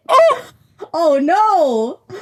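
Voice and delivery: put-on dismayed, drawn-out Minnesota accent. Speaker realizing the accent is out in Arizona, mock-dismayed Minnesota accent. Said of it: "my worst Minnesota accent".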